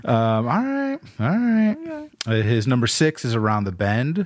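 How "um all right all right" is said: higher, said through laughter; laughing. Real, not acted. Cohost regaining composure after the joke, laughing. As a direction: still giggling while trying to go on. Still laughing at listener's list.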